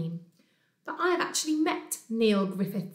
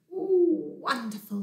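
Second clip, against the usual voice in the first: delighted Bear; 5 semitones higher, slower than usual. Acted. Bear scratches behind his ears, blissful delight. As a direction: savour the relief.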